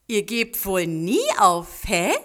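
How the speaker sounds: put-on smiling old neighbour. A narrator's reading. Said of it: "sagte der alte Nachbar lächelnd".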